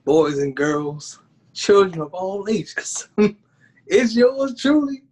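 slow showman announcer call; ringmaster. Pretend. Announcer intro to podcast.

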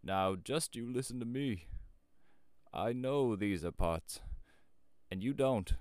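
slow, loud, insistent countryman; old shepherd. A narrator's reading. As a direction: lecture them like an old rustic.

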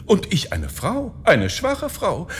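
high, pleading woman's voice; wife calling out. A narrator's reading. Wife claims to fear the thief's knife, high calling voice. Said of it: "rief sie ihm zu".

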